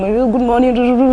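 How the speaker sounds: very slow British English "Good morning."; British accent. Retold or imitated. Receptionist greeting parents at the school door, in a slow British accent. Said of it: "front desk person still there".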